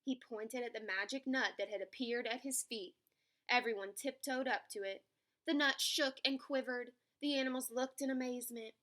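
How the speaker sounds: animated picture-book reading; story narration. A narrator's reading. Narrator telling children about an animal race, story narration. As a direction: tell it to young children.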